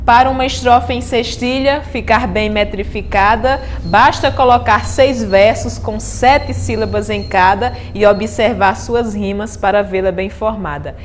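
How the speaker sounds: reciting a poem. Acted. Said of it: "Esse resumo é de um poeta chamado Ismael".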